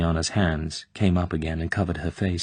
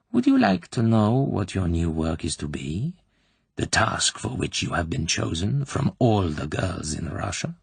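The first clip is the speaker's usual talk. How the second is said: insinuating colonel. Acted. Klebb probing the girl's private life, slyly. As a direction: lean in and savour each question.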